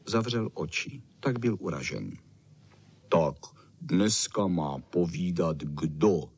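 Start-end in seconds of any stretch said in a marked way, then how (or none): 3.1-6.3 low, slow mumble of a big dog; mumbling. A narrator's reading. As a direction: mumble it lazily, much lower. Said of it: "huhlal Bernardín".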